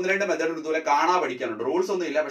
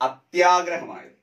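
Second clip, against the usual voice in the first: slow answer; 4 dB louder, much slower than usual. Shown as a demonstration. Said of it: "അതുകൊണ്ടാണ് എന്തായത്?".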